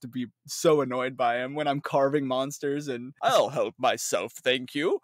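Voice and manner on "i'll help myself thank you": light, slow mock-British voice; British accent. Imitating own hunter while carving monsters, lightly British. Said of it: "I gave my guy a British accent".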